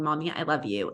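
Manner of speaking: Mommy, I love you said low in a teasing, mock-sweet way. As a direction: lightly imitate the kids poking fun. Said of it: "almost in a mocking way".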